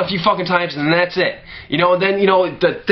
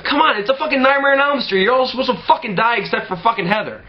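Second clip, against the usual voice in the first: high, mocking outburst with a laugh in it; outraged disbelief; 7 semitones higher than usual. Viewer scoffing at the remake, high mocking outrage. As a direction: scoff at the movie in a high squeaky voice. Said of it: "I'm like".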